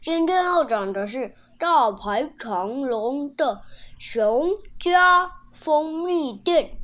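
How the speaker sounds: silly cartoon dog voice, slowed at the end; goofy put-on cartoon voice. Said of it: "企鹅哥哥的声音变得好奇怪哟".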